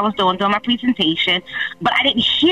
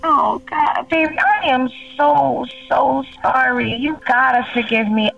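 pleading, close to crying; tearful apology. Real, not acted. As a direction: beg forgiveness through tears.

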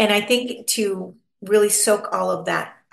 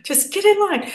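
high, pleading squeak at the ducks; a comic high-pitched plea to line up; exasperated squeal; 13 semitones higher, 4 dB louder than usual. Retold or imitated. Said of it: "You're like".

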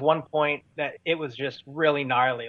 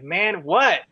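mildly exasperated, raised and punched; retold exasperation; 5 semitones higher, 4 dB louder than usual. Telling friends about the distracting flashlight, mock exasperation. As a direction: act out being fed up with an interruption.

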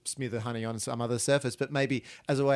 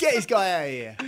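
pompous pharaoh voice; 4 semitones higher than usual. Pretend. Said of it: "Why are you talking like that?".

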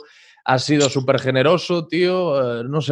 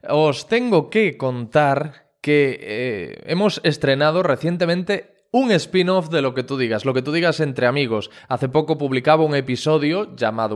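host's presenter delivery to the audience; podcast outro. Real, not acted. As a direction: announce the show's news to listeners. Host reads the episode outro.

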